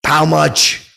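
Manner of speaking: loud, high defiant comeback; mock defiant snap; thrown back retort. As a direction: fire the question straight back. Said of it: "I throw it right back at him".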